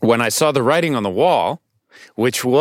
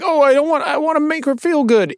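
much higher, hammed-up sappy tone; mock sweet suitor. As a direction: overplay the eager lover. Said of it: "it wasn't like".

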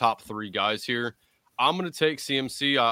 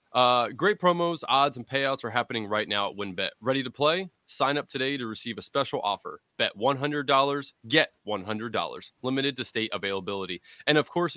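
ad read. Acted. Reads sponsor ad.

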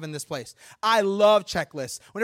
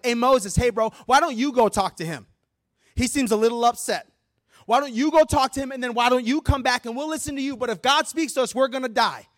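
mildly panicky, higher and louder plea; mock freaked-out; 5 semitones higher, 6 dB louder than usual. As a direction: act out scared people pleading. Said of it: "so freaked out and scared".

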